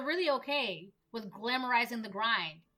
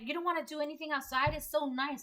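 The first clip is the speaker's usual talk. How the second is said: imitated nagging friend, higher and quick; mock-pushy, pitched up in disbelief; 5 semitones higher than usual. Friend urging her to go outside, imitated nagging disbelief.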